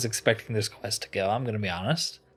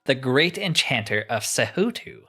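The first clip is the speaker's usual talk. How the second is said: a touch of theatrical pomp; mildly grandiose game-character voice; lightly voiced grand enchanter. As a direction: read it as a self-important old master, lightly.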